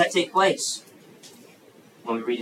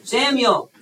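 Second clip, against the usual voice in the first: "Samuel" called out at a raised pitch; calling a name; 8 semitones higher, 3 dB louder, slower than usual. Acted. God calls the boy Samuel at night, calling out. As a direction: call to a sleeper, each name separate.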